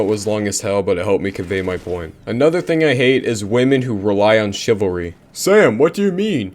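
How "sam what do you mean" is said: puzzled viewer. Acted. Imagined viewer questions the host.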